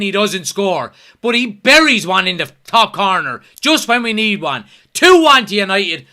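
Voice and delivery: loud, defiant and jubilant; excited shouting. Real, not acted. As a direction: shout down the doubters, still buzzing. Defiant celebration after the goal.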